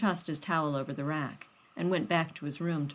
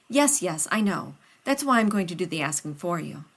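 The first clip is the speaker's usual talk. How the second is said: louder, eager flustered scientist voice; a nervous friend rushing to help; loud and hurried, anxious to please; Rodney, flustered; 5 dB louder than usual. Acted.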